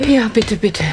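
breathy, winded pleading; out of breath. Pretend. Exhausted runner asking coach for water, out of breath. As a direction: beg for a drink between puffs. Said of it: "Ich bin schon voll aus der Puste".

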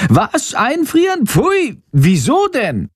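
very high shrieking bat, appalled; horrified shriek. A narrator's reading. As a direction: shriek in disgust as the little bat. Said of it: "kreischt Shandor entsetzt". (entsetztes Kreischen, sehr hoch)

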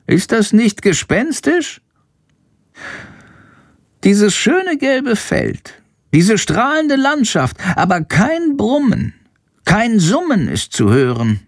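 a small bat spooked by the silence; bat Chandor. Acted.

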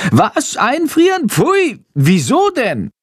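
high, shocked squeals of disgust; a bat squealing in horror; horrified shriek. Acted. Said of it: "kreischt Chandor entsetzt".

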